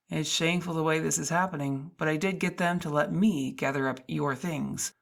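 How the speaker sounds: a kind guard regretfully blocking her way; security guard. Acted.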